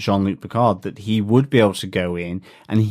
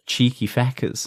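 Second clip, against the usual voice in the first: put-on quick Irish accent on the quote; 2 semitones higher, 3 dB quieter than usual. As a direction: say it like a cheeky Dubliner. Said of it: "in a very Irish accent".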